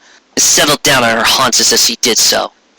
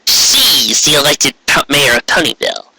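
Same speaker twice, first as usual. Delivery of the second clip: Trixie's voice; 2 semitones higher than usual. Acted. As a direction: measure each word before the queen. Trixie speaking.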